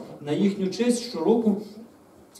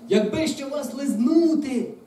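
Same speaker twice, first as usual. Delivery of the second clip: high, loud, stretched-out wish; wistful plea swelling upward; hopeful; 9 semitones higher, 5 dB louder, slower than usual. A narrator's reading. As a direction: voice a longing hope, slowly. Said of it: "В голосах драконів забриніла надія".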